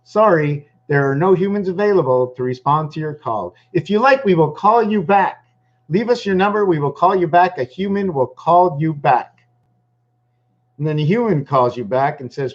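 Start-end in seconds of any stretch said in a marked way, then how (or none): 0.0-9.3 higher, lightly voiced recorded phone system; sing-song like a hold-line recording; automated phone message. Mocking the automated call line, higher sing-song recording voice. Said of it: "The robot, it's just".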